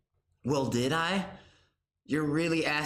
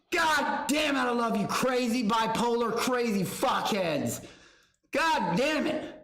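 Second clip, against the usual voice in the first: shout; 5 semitones higher than usual. Real, not acted. Hype yelling at chat.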